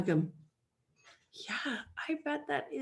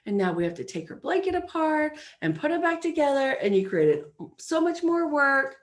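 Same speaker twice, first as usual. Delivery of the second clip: inner critic; 3 dB louder than usual. Retold or imitated. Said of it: "my brain wants to go".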